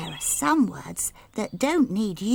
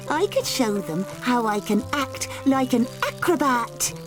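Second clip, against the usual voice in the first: high, gushing and thrilled; delighted girl; 9 semitones higher than usual. Acted. Golden Girl gushing to Annie Apple about the trip. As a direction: brim over with plans.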